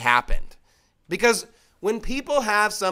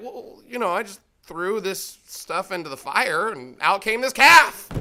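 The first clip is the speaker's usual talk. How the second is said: sheepish Aaron. Acted. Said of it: "Aaron is caught red-handed".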